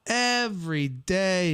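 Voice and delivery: slow, drawn-out EVERY DAY; emphatic. Real, not acted. Answering whether they watched the show, emphatic. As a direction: stretch out each word for emphasis.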